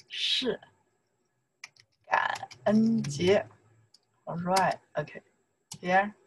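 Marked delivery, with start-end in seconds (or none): 0.1-3.5 drawn out, with a pause between words; slow model phrase. Shown as a demonstration. Teacher finishing the model sentence, slow and careful. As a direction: separate and stretch the words.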